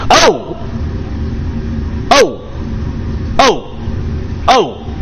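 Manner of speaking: sudden high loud yelps; surprised exclamations. Real, not acted. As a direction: gasp out in surprise. Reacting to new chat messages.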